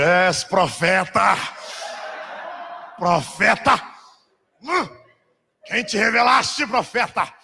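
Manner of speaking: slow, strained, drawn-out exclamation; mock awe. Preacher acts out his stunned reply to the prophet, exaggerated awe. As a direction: ham up being stunned by a revelation.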